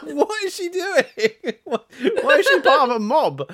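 squeaky laughing what-is-happening; laughing disbelief. Retold or imitated. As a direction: giggle out your bafflement. Bewildered laughter at odd sight.

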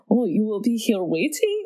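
cringy mock French accent, questioning. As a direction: badly imitate a French accent. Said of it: "he's doing a French accent".

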